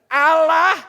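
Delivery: loud, emphatic reading lead; aba-aba baca lantang. Real, not acted. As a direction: boom the word out for all to join. Leads audience reading the verse aloud. (seruan lantang membaca bersama)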